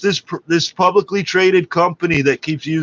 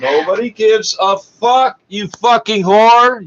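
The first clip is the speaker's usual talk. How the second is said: angry yell; 5 semitones higher than usual. Real, not acted. Yelling at the sports anchor.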